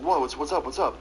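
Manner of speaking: mild retold surprise; groggy surprise. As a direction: caught off guard out of sleep. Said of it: "He's like".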